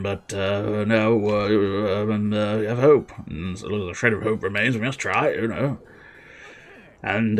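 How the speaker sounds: stammering royal speech full of ums; rally bravely while losing the thread; dithering king. Acted. King recruiting Veldin against the hordes, hesitant and rambling.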